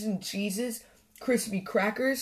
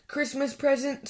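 high-pitched incredulous question; scornful snort; 7 semitones higher than usual. A narrator's reading. Badger to Squirrel offering a gift, scornful disbelief. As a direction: throw it back in disbelief. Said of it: "snorted Grumpy Badger".

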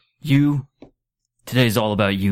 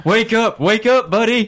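high pleading; 10 semitones higher than usual. Acted. Pleading over the tapestry.

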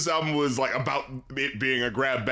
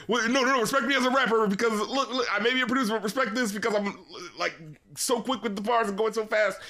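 higher, lightly voiced rapper demanding respect; mock insistent rapper; 5 semitones higher, faster than usual. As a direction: mimic a rapper proving himself. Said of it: "over rapping that he'll kind of do".

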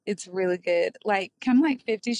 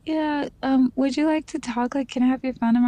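imitating his sweet, slightly higher-pitched voice; lightly voiced sweet, hesitant suitor; really sweet; 3 semitones higher than usual. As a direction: play him asking sweetly. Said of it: "um, like, really sweet".

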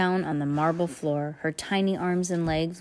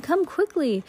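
rough and low; 11 semitones higher than usual. A narrator's reading. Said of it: "His voice was rough and low".

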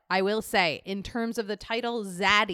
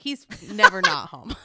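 laughing; 5 semitones higher, 7 dB louder than usual. Retold or imitated. Joking about boyfriend always home.

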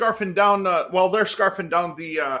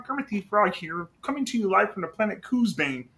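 Kermit impression; 4 dB quieter than usual. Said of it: "I do a Kermit the Frog impression".

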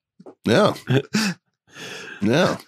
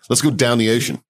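put-on Maryland accent. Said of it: "talk shit about Maryland's accent".

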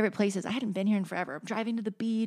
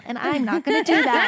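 emphatic declaration; 6 semitones higher, 7 dB louder than usual. Real, not acted.

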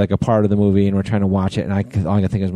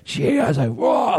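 much higher shouted gasp of shock; retold explosion; 7 semitones higher, slower than usual. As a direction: yell it as the touchdown lands. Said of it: "I explode".

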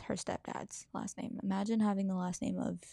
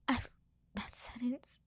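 whispered, cracking voice; voice breaking; 4 semitones higher, 4 dB quieter than usual. Real, not acted. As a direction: barely get the words out. Breaking up reading mom's words.

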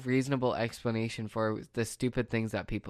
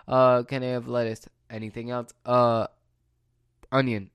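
mock caller, louder on each uh; hesitant customer; 5 dB louder than usual. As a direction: act out a dithering customer naming one topping at a time. Indecisive phone customer listing toppings.

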